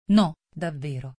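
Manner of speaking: low, meek apology; Alice pleads meekly with the offended mouse; submissively. A narrator's reading. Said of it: "disse Alice con sottomissione".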